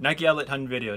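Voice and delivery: quick retry of a tongue-tripping phrase; hurried attempt at saying it cleanly; trying it fast. Shown as a demonstration. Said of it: "can't even say that that fast".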